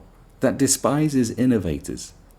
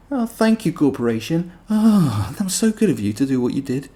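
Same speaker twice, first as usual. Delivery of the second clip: mock gratitude; 5 semitones higher than usual. Mocking grateful fans.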